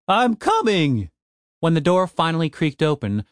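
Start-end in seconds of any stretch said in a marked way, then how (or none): 0.1-1.1 slow drowsy reply; barely awake, slow; sleepy voice. Acted. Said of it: "said a sleepy voice".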